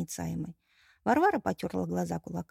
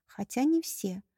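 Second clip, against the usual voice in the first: ordinary delivery, nothing marked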